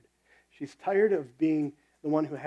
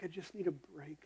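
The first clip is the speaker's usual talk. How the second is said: tired whisper; 17 dB quieter than usual. Retold or imitated. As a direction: breathe it out, worn out and whispered. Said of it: "you can just hear the tiredness in their voice".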